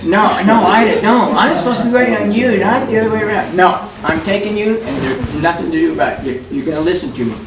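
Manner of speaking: high, fast laughing protest; no, no, it's my job to look after you; excited protest. Retold or imitated. Glenn laughingly protesting to Ida, high and quick.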